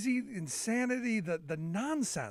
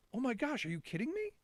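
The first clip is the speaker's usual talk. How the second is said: imitated shock, higher and hushed; shocked disbelief; 4 semitones higher, 4 dB quieter, faster than usual. Dad imitates his son learning who was president, quietly shocked. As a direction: play stunned, keeping it small. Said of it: "in the most kind of shocked".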